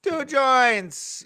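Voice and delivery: mock shout. Mocking S2's accented greeting.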